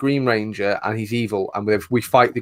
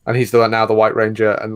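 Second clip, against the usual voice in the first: ordinary talk, nothing marked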